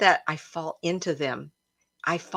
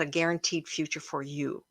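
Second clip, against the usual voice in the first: whispered; 3 semitones lower, 7 dB quieter than usual. Retold or imitated. Family doubting her dance path.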